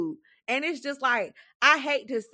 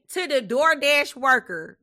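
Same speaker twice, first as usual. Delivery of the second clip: laughing; 5 dB louder than usual. Real, not acted. Laughing while starting rant.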